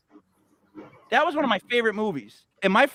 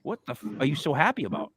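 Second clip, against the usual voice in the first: creeped-out inner voice; 5 semitones higher than usual. Retold or imitated. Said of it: "literally my mind goes".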